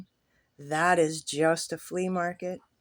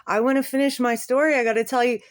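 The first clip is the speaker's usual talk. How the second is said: put-on pleading old man; 6 semitones higher, 7 dB louder, faster than usual.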